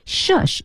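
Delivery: "Shush" with both sh sounds distinct; high, crisply sounded "Shush"; clear articulation. Shown as a demonstration. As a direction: articulate each end of "Shush". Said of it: "读清楚啊".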